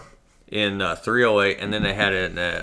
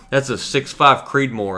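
slow, higher-pitched explanation; earnest clerk; 4 semitones higher, 5 dB louder, slower than usual. Retold or imitated. Clerk correcting the customer's wrong guess, earnest. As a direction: imitate a clerk patiently naming it.

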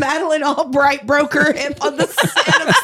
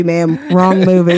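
repeated louder; louder scolding; 8 semitones lower, 5 dB louder than usual. Acted. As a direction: say it firmer and louder.

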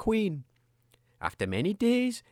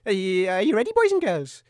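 put-on booming kids show opener. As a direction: hail the kids like a TV host. Storyteller calls to kids.

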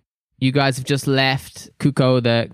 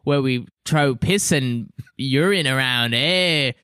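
put-on accent slipping toward Canadian, eh; a wobbly Aussie try that drifts Canadian; mock Australian accent. Host retries the Australian intro, slipping into Canadian. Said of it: "We're a little Canadian".

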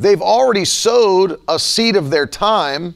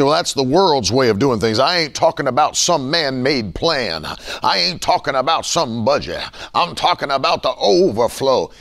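low drawling Southern preacher voice, lower pitch; mock Southern accent; 5 semitones lower than usual. Preacher mocking prosperity teachers in a lower Southern accent. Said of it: "I always go to the Southern accent".

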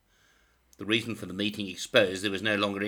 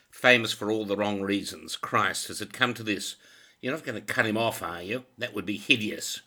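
appalled outburst; 2 semitones higher, 6 dB louder than usual. Acted. Champion appalled at scandal.

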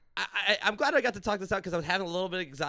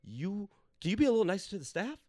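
mock polite; 3 semitones higher than usual. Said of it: "I was like".

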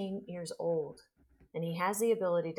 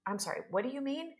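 surprised question; 6 semitones higher, 4 dB quieter, faster than usual. Retold or imitated. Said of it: "And I said".

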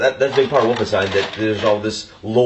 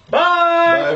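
squeaky bye. Pretend. Goofy sign-off.

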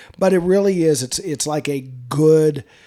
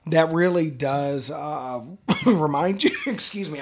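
laughing through a whiskey burn; words catching after a strong sip; throat caught by neat whiskey. Real, not acted. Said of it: "I'm drinking my neat and it got to me".

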